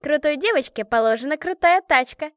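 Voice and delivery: high, loud bragging; loudly showing off; boastful shout. A narrator's reading. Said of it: "крикнула Машка".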